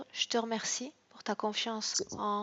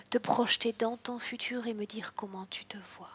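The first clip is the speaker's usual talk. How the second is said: whispered hypnosis. Acted. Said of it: "hypnotic guidance to client".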